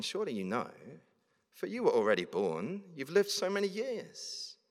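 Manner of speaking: mock-earnest sarcasm, pitch swinging up at the end; sarcastic. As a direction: feign deference, lifting sharply on the final phrase. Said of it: "Can you hear the sarcasm?".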